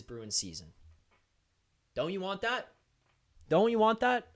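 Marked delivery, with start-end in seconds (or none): 3.5-4.3 louder, higher insistent question; insistent repeat. Real, not acted. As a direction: press the listeners harder, raising your voice. Repeats the sales pitch more insistently.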